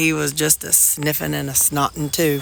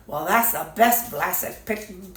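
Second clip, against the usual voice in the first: put-on Boston accent; 4 dB quieter than usual. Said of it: "he had that Boston kind of accent".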